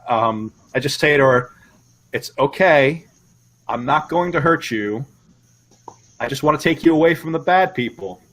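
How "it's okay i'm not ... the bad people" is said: measured, earnest coaxing; gently convince a scared girl you mean no harm; sincere reassurance. Acted. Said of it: "try to convince her of my sincerity".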